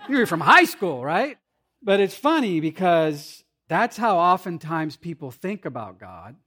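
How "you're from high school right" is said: high, loud, laughing through the words; can't believe it, laugh as you ask; laughing disbelief. Retold or imitated. Old classmate teasing the new pastor, laughing in disbelief. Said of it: "He's like".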